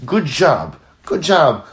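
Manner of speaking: hearty encouraging praise. Retold or imitated. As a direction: cheer someone on as they work hard. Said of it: "you give someone a word of chizuk".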